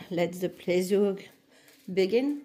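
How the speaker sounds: put-on slow English catchphrase with a French accent. Vlogger quoting a brand's slogan to viewers, French-accented English. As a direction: quote it in heavily French English. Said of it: "Vous remarquez mon magnifique accent".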